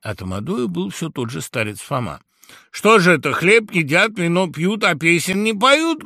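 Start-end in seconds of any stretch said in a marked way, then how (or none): 2.7-6.0 high, loud jolly call; raven's shout. Acted. Raven loudly calls the guests to sing. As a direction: call out for a song. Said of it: "крикнул вдруг ворон".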